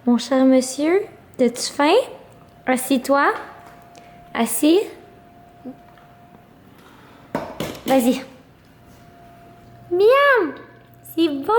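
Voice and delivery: bright, coaxing voice for a pet; talking to a dog. Real, not acted. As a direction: coax the dog to sit and eat. Feeding her dog Rocco. (voix pour parler au chien)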